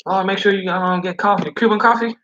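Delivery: high, fussing lady pressing Cuban coffee; doting lady. Retold or imitated. Old lady offering the driver Cuban coffee, high and fussing. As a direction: push the coffee on him like a grandmother. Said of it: "And they be like".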